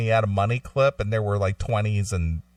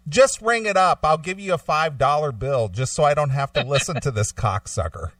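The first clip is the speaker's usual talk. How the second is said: exasperated outburst; 5 semitones higher than usual. Retold or imitated. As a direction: snap it out like you've lost patience. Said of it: "I almost just turned and said".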